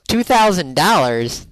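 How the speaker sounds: disbelief. Real, not acted. Echoing the price in disbelief.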